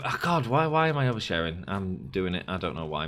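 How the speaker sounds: usual speaking voice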